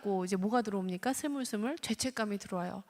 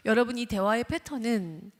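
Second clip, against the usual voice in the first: ordinary talk, nothing marked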